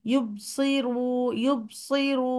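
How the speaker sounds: ইউবসিরু with the ba stopped dead; wrong, no qalqala; blocked ba. Shown as a demonstration. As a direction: clip the ba without bounce. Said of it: "না, না, কলকলা দিতে হবে".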